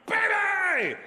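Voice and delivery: hammed-up high shouted call. Dad bursting into his daughter's bedroom, high mock shout. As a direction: burst in yelling her name way up high.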